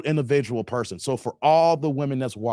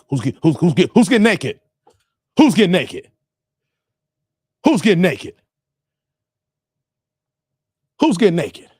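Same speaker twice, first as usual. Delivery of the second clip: loud repeated call to the chat; loud building call; 2 semitones higher, 7 dB louder than usual. Real, not acted. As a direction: build up to calling out the question. Calling out to chat, laughing.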